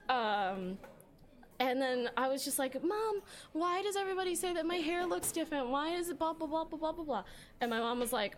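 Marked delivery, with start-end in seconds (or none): 2.8-7.2 put-on whiny kid to mom. Teen self whining to mom.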